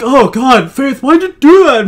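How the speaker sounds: high, loud imitation of a complainer; mock exasperation. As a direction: wail the reproach, stretching it out. Mimics a man scolding Faith.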